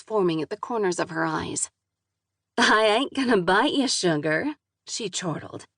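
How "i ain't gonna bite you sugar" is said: southern drawl. Acted. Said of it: "thick southern drawl".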